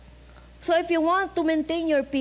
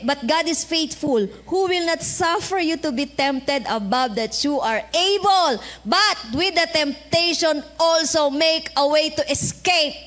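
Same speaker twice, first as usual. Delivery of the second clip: slow, solemn scripture reading; 3 dB louder than usual. Acted. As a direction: read the verse slowly and weightily. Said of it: "so sabi". (mabagal at taimtim na pagbasa ng talata)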